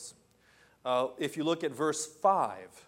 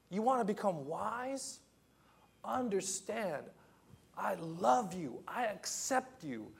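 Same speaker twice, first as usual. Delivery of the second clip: tender God's voice; 4 semitones higher, 3 dB quieter than usual. Acted. Gentle voice of God.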